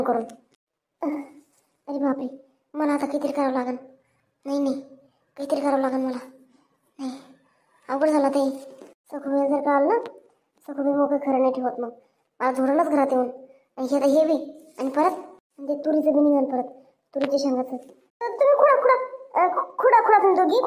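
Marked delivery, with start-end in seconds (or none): 1.0-7.1 worried mutter to self. Acted. Muttering worry to himself. 17.8-20.6 eager urging. Acted. Urging the women to pluck.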